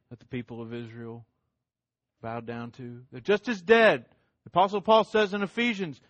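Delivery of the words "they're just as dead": "dead" hit hard and loud; a preacher's forceful "They're just as dead."; louder, stress on dead. Shown as a demonstration. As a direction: ring out the word "dead".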